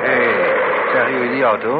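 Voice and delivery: loud urgent call across the street; hey, loud call after a car. Acted. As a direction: shout to catch their attention. Inspector calls out at passing car.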